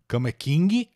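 king said "KIN-gui" in Portuguese; Brazilian added ending. Shown as a demonstration. Teacher jokes about the bed size, Brazilian pronunciation. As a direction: add a hard G and "ee" to king. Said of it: "Nada de botar".

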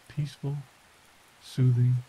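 usual speaking voice

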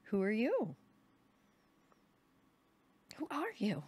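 high loud repeated demand; shouting, repeated. A narrator's reading. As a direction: hurl the question at him twice. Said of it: "my mother shouted".

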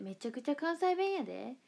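playful Kansai-accented insistence; Kansai dialect. Shown as a demonstration. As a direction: lay on the Kansai intonation. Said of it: "方言出ないんですよ。めちゃくちゃ関西弁やで".

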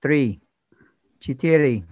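flat slow number reading; numbers station. Pretend. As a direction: read numbers like a spy broadcast. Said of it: "I'm being a numbers station".

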